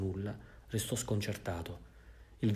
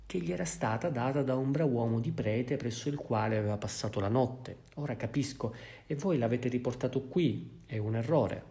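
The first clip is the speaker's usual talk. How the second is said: smiling; 3 semitones higher than usual. Acted. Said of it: "interruppe sorridendo".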